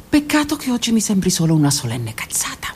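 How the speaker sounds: whispered sarcastic aside; bitter whisper. Acted. Mocking the beautiful phrase, bitter whispered sarcasm.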